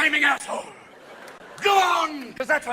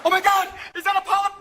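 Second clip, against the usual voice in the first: panicked shout; 8 semitones higher than usual. Retold or imitated. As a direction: panic at the screen. Panicked patient.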